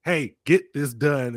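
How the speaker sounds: slow, straightforward command; blunt imitated order. German coworker telling someone to get work done, mildly imitated bluntness. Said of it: "then that accent and the tone".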